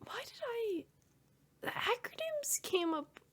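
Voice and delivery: whispered aside to self; hushed, half-whispered musing; muttering to self. Real, not acted. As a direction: think aloud under your breath, barely voiced. Thinking aloud to herself.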